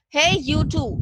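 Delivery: big booming call. Acted. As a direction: boom it out at them. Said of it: "boomed a voice at us".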